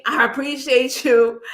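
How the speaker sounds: slow, laughing through the words; grateful laugh while thanking; laughing thanks. Real, not acted. Thanking a donor on stream.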